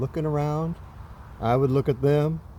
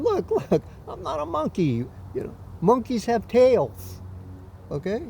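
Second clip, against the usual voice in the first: higher, insistent shouted protest; shouting up; 7 semitones higher than usual. Retold or imitated. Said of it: "I shout up to him".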